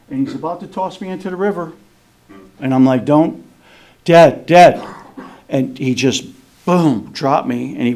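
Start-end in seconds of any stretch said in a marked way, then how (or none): 3.0-4.8 louder retold cry to Dad; imitated panicky begging, breaking out louder; frightened pleading. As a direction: re-enact a scared kid calling out to his father. Child about to be thrown in river.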